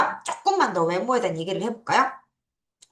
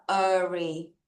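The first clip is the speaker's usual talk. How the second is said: slow demo; 4 semitones lower, 4 dB quieter than usual. Shown as a demonstration. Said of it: "A는 애가 아니라 아".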